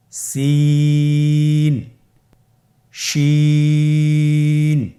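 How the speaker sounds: each letter held very slowly and loud; recited letter names. Shown as a demonstration. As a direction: recite the letters one by one, long. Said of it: "শুরু থেকে বলার চেষ্টা করি". (প্রতিটি হরফ টেনে জোরে আবৃত্তি)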